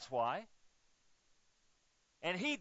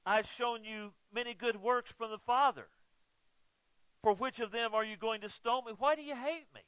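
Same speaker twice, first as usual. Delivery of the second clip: lightly voiced pleading Jesus; Jesus asking the crowd, mildly pained; voicing Jesus lightly; 3 semitones higher than usual. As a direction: ask it as a wounded Jesus. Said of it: "Jesus answered them".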